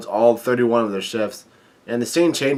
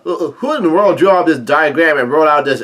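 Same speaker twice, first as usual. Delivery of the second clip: higher-pitched, mildly raised outcry; mock yell; 4 semitones higher, 3 dB louder than usual. Chef demands who drew the diagram, mock yell. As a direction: cry out in disbelief, not full volume. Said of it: "one of the chefs yell out".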